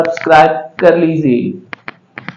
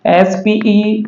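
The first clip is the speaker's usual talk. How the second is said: deliberate letter-by-letter spelling; teacher spelling it out slowly; spelled slowly; slower than usual. Shown as a demonstration. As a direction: spell S P E C I A L slowly, then say स्पेशल. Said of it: "स्पेशल इसको पढ़ेंगे".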